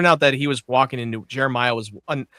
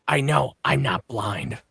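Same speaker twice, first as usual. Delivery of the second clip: deadpan retort; 4 semitones lower, 5 dB quieter, much slower than usual. Retold or imitated. Acts out gunman's curt reply.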